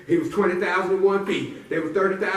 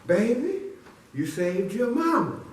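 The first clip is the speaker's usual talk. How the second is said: grateful mama; 6 semitones higher, slower than usual. Acted. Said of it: "Mama looked at him and said".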